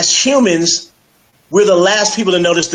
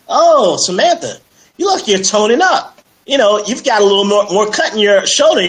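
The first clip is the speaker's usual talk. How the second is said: coworker's compliment; 4 semitones higher than usual. Retold or imitated. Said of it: "somebody says".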